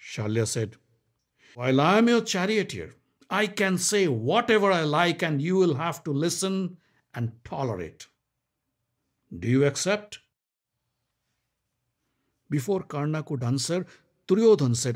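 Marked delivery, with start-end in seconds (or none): 1.5-10.2 higher, brisk king; a proud bargainer; Shalya's voice. Acted. Shalya questions Karna, higher voiced.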